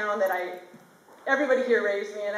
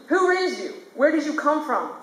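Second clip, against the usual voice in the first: teacher quizzing; 4 semitones higher than usual. Retold or imitated.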